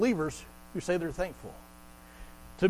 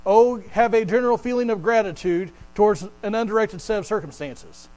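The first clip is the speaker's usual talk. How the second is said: mock wrong version. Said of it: "he doesn't say".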